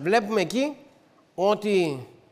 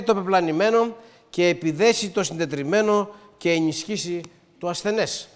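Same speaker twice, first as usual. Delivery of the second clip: scripture reading. Real, not acted. Reads a verse of Ezekiel aloud.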